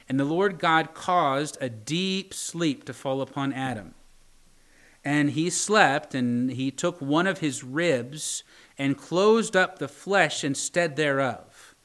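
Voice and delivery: slow, measured King James reading; scripture reading. Acted. Preacher reading Genesis to his congregation, slow and solemn. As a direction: read it out like holy writ.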